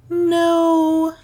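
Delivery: high, drawn-out considered no; high, held, judicious refusal; judicial. A narrator's reading. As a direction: weigh it up, holding the word. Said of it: "Melissa said judicially".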